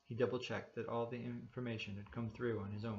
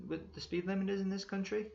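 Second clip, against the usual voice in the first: stern cop; 9 semitones higher, 4 dB louder than usual. A narrator's reading. Cop voiced in read story.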